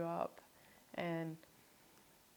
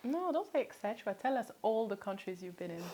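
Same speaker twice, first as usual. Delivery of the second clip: the host jokingly demands the full list; playful insistence; 3 semitones higher than usual. Real, not acted. Host playfully insists the guest list every country.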